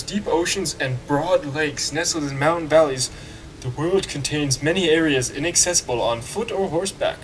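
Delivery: mock British read-out; crappy British accent. Player reading boat instructions aloud, crappy British accent. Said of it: "used my crappy British accent".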